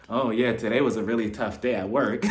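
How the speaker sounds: low, stilted imitation of making conversation; awkward small talk. Louis pretends nothing was said, awkward small talk. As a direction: act out forced casual chat. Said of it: "starts making awkward conversation".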